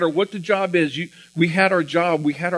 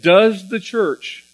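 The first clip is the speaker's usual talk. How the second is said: weighty question; 5 semitones higher, 5 dB louder, much slower than usual. Real, not acted. Repeating the key question.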